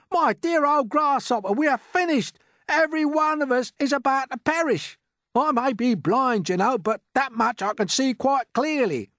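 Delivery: very high and loud doom; despairing cry. A narrator's reading. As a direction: wail that all is lost. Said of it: "cried the earthworm".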